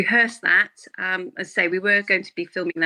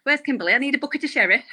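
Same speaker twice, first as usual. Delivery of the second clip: raised northern comic character voice; lightly hammed-up northern sketch character; Victoria Wood; 6 semitones higher than usual. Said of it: "it's a bit Victoria Woodish".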